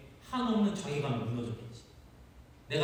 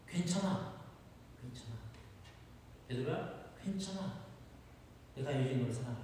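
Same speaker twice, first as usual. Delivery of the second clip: gentle comfort; 5 dB quieter than usual. Acted. Jesus comforts Peter.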